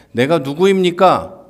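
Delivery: plead, overwhelmed by the calling; Moses's plea. Acted. (높고 크게 호소하는 모세의 물음)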